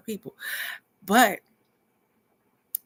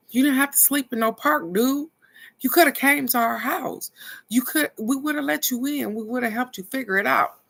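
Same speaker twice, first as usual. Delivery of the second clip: higher-pitched voice playing her son; imitating her son; 8 semitones higher than usual. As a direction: lift the voice to play the son telling Amir he could have come over. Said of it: "my son is like".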